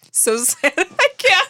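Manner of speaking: laughing through the words; words broken by giggles; trying not to laugh. Real, not acted. Laughing while retelling.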